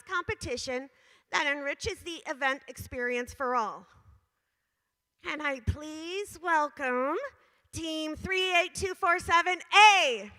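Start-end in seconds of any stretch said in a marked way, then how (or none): 5.2-10.3 announcer call. Real, not acted. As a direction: draw out the team number. Announcing award winner at event.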